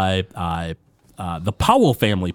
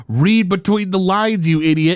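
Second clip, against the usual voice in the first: acted exasperation; 7 semitones higher than usual. Orphanage man hints to Homer, mock exasperated.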